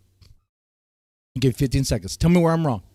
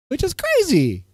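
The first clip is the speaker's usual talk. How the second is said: much higher, falling off in disbelief; incredulous; 9 semitones higher, 4 dB quieter than usual. Real, not acted. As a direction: squeak it out like you can't believe it. Higher repeat of the line.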